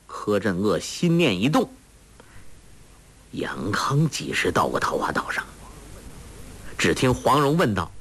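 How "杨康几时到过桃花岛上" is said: a hushed unvoiced whisper; whispered thought. A narrator's reading. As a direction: breathe the thought as a private whisper. Ke Zhen'e's inner thought.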